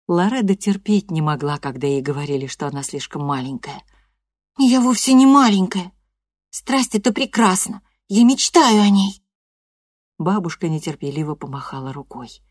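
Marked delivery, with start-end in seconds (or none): 4.6-9.2 put-on high, loud, offended girl's voice; teen girl protesting to grandma, high and loud; indignant teenage girl. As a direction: insist you're not little. Loreda's voice, indignant.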